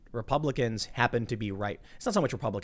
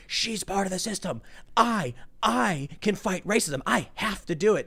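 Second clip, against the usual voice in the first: mock woman protester; 7 semitones higher than usual. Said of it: "And she's like".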